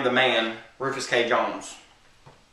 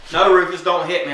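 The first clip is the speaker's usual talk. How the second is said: mock pleading; 5 semitones higher, 3 dB louder than usual. Beaten neighbor pleads in story.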